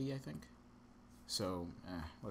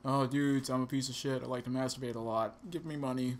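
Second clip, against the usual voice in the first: louder, higher caricature of a stand-up; mock comedian; 3 semitones higher, 5 dB louder than usual. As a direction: ham up a self-loathing comic. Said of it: "like a white comedian".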